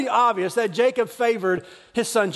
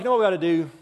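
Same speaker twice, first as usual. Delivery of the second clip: low, plotting undertone; scheming brothers; 4 semitones lower, faster than usual. Retold or imitated. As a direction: whisper the plan to do him in. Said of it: "They're like".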